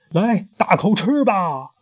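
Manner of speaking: high, slow, sugary offer; queen offers a prawn; coaxing queen. Acted. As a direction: urge him to take a big bite.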